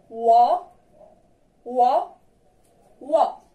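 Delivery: "Wa" said as a clear w-glide into a; model pronunciation. Shown as a demonstration. Teacher drills "Wa" sound, clear model. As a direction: sound out "Wa" for pupils to echo. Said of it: "Répétez avec moi".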